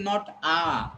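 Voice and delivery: "A" as a long, open "aah", drawn out slowly; slow, full open "A"; full A, as error. Shown as a demonstration. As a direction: stretch the "A" to show what to avoid. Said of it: "Weak A is here".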